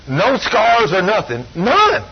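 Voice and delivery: rising preacher's exclamation; excited exclaim. Real, not acted. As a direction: voice jumps high on none.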